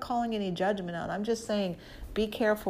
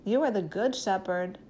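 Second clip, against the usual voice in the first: humble prayer. Shown as a demonstration. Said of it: "I would say".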